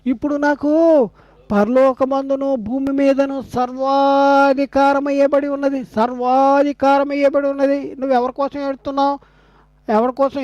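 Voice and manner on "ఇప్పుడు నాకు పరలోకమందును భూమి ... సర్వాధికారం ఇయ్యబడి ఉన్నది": slow solemn declaration. Retold or imitated. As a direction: stretch the key words out like a proclamation. Quotes Jesus' declaration of authority.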